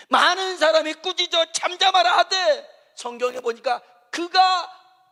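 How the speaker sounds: high, loud impassioned exhortation; fiery Korean sermon climax; fervent preaching. Real, not acted. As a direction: urge them forward with everything you have. Preaching at full force.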